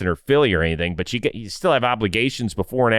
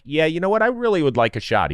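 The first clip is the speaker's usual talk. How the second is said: raised pitch, imitating a hopeful candidate; lightly put-on, higher wishful voice; mock eagerness; 6 semitones higher than usual. Player wishing for a manager's job, mock eager.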